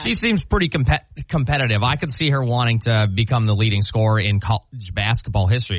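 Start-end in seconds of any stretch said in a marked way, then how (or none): 1.8-5.8 talking while coffee goes down wrong; struggling through a swallow of coffee; choking on coffee. Real, not acted. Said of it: "I'm choking on coffee here".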